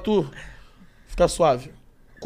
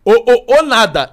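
mocking retort; 5 dB louder, much slower than usual. Imitates tic, then woman's retort.

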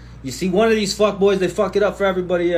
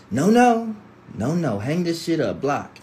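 1 ringtone no. Retold or imitated. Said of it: "that no, no to your ex's ringtone".

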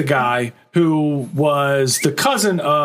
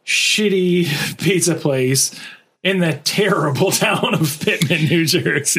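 laughing scorn; 4 semitones higher, slower than usual. Real, not acted. Mocking the town, laughing.

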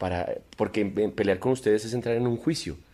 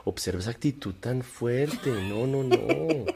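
mock calm. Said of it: "yo juego al".

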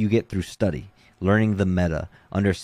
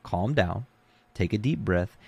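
calm coaching; 2 semitones higher than usual. Retold or imitated. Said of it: "when you start freaking out".

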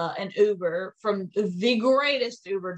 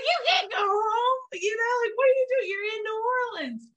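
much higher, slowed sassy driver voice; Uber driver Ashley. Retold or imitated. Uber driver urging her to go out, high sassy voice. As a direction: push her hard, high and insistent. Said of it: "She's like".

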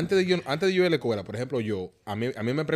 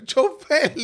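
higher, louder mock call to the driver; mock yell; 9 dB louder than usual. Newcomer on the bus calling the driver, mock yell. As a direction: holler for the driver, hammed-up.

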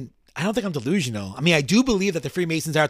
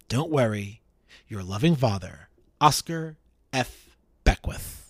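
formal letter reading. Acted. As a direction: read it out with mild solemnity, unhurried. Reads condemned man's farewell letter aloud.

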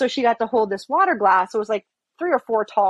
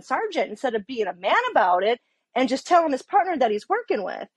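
indignant, raised-pitch retelling; retold angry rant; 4 semitones higher than usual. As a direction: vent about the partner, pitched up. Retold rant about tattling partner.

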